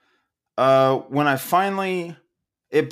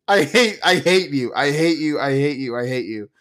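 fading hate; 4 semitones lower than usual. Acted. Angry rant fading out.

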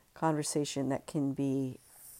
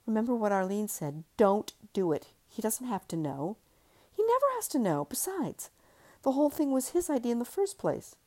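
higher, coaxing inner voice; 6 semitones higher than usual. Acted. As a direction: urge her, sly and insistent. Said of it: "another voice called".

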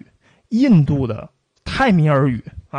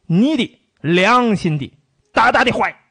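mock pidgin Japanese soldier; 3 semitones higher than usual. Lecturer mocks a wartime pidgin speaker, slow and rising. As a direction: ham up a broken-Chinese occupier line.

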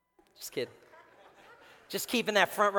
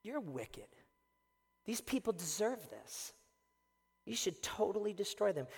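Jonah accusing God; 9 dB quieter than usual. Retold or imitated. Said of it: "He says".

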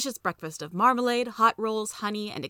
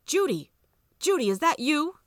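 raised, higher call across a noisy platform; 8 semitones higher, 4 dB louder than usual. A narrator's reading. Father calling his daughter over station noise, loud call. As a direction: call her name over the crowd. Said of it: "had to shout at Judy to make her hear him".

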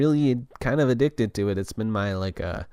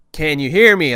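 louder, higher raised voice; yelling; 5 semitones higher, 8 dB louder than usual. Retold or imitated. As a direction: call out over a blaring TV. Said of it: "I start yelling in this restaurant".

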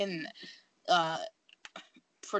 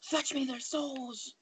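menacing villain voice; 7 semitones higher, 6 dB quieter, much slower than usual. Retold or imitated. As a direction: drawl it like a game villain. Quoting game enemy line.

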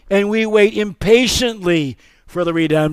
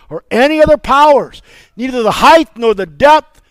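full-force preaching. Acted. Pastor leads the call and response on Romans, preaching hard. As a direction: drive the litany home.

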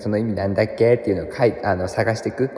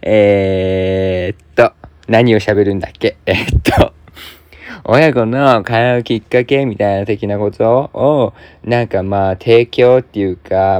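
hammed-up celebrity rambling; Lou Oshiba style. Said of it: "めちゃめちゃルー大柴出てたよね". (ルー大柴風のしゃべり)

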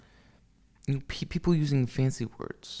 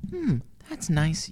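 politely uninterested; 4 semitones higher, slower than usual. Shown as a demonstration. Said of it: "it's a very polite way of saying".

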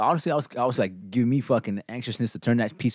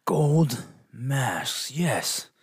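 mock eureka, laughing; 4 semitones higher, much slower than usual. Mocking the filmmaker's idea, laughing.

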